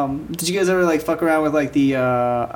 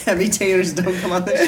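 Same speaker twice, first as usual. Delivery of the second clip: laughing; 4 semitones higher than usual. Retold or imitated. Corrected riff on same line.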